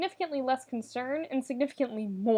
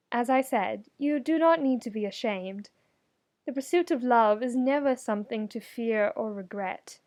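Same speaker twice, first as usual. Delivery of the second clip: sincere comfort. Acted. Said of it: "going for sincere and warm and compassionate".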